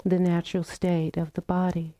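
calm, unhurried meditation guidance with long pauses; guided meditation. Real, not acted. Teacher guiding the group into loving kindness practice, calm meditation voice. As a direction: gently invite them to settle, phrase by phrase.

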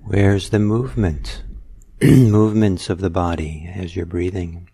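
measured meditation guidance with long pauses; guided meditation. Real, not acted. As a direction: unhurriedly guide listeners into noticing their breath. Leads a guided breathing meditation.

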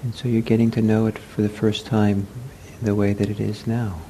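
unhurried meditation guidance with long pauses; guided meditation. Real, not acted. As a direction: guide them gently into the body, leaving space. Leads a seated meditation.

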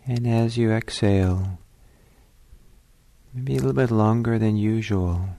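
calm, unhurried meditation guidance with long pauses; spacious, leisurely phrases that leave room to breathe; guided meditation. Real, not acted.

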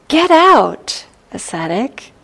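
sharp, high, loud order from the ogre; a gruff demon throwing out a monk; ogre's command. Acted. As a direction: bark it out like a rude ogre. Ogre ordering the Buddha out again.

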